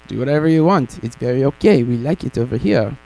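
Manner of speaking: lightly put-on, bad French accent; a faint French accent, deliberately bad. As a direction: play the French lawmakers in a hammy French accent. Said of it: "my really bad accent".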